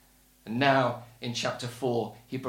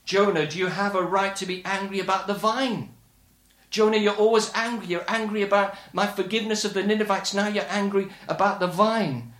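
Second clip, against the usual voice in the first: higher-pitched, pressing challenge to Jonah; confronting; 5 semitones higher, 3 dB louder than usual. Acted. God confronts angry Jonah about the vine, confronting. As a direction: take Jonah to task, voice raised in pitch. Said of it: "God confronts Jonah in his anger".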